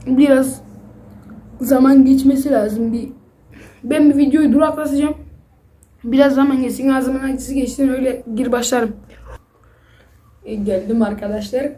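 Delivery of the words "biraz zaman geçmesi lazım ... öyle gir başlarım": talking through a burning mouth; words pushed past spicy heat; mouth full of hot food. Real, not acted. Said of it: "Hala ağzım yanıyor".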